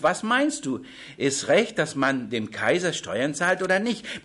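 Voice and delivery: the Pharisees testing Jesus with a trick question; challenging Pharisee question. Acted. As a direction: pose the question as a sly challenge. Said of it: "Darum sagte uns".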